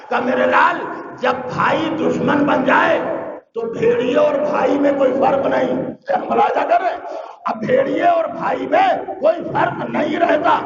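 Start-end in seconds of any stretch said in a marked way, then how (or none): 0.2-5.7 raised warning. Acted. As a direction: call out the warning with force. Jacob warning Joseph about brothers.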